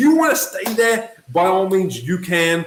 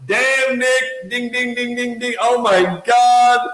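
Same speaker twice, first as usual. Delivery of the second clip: higher-pitched, sing-out "ding, ding, ding"; mock amazed realisation; 5 semitones higher, slower than usual. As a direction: play a listener having a lightbulb moment. Acting out the listener's sudden realisation.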